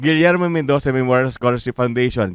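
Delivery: rattled off fast in one breath.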